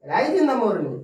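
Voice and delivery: "rise" stressed loud and high. Shown as a demonstration. Teacher stressing main verb for class. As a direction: punch "rise". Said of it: "main verb पर जोड़ डालकर बोला जाता है".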